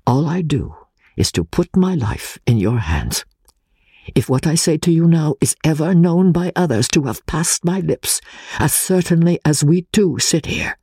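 lightly voiced Italian exile, confiding; a friend sharing a deadly secret, held close; Pesca's voice. Exile confiding his membership to English friend, lightly voiced.

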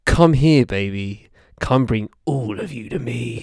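a hint of a smooth lover's croon; lightly crooned seduction, half joking; mock sultry deep voice. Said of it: "Where's your lower register?".

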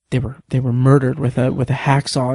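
low, intense imitation of the author. Retelling an author's scene to a co-host, very intense. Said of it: "very intense".

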